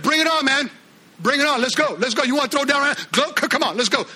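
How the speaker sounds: fired-up, bring it on; egging on the giant, pumped; mock fight challenge. David taunting Goliath, an eager mock challenge.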